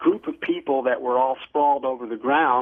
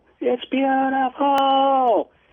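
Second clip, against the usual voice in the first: put-on shouting, higher; 12 semitones higher than usual. Retelling yelling up at a bright craft overhead: retelling own yell. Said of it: "I was yelling out".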